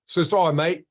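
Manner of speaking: badly faked Australian apology; half-hearted attempt at an Aussie accent; poor Australian accent. Retelling a delayed patient's apology, poor Australian accent. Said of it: "I can't do that accent".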